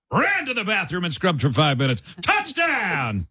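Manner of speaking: hammed-up touchdown call; mock play-by-play, building to a cry; frantic mock sports commentary. Shown as a demonstration. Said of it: "Say it in your sportscaster voice".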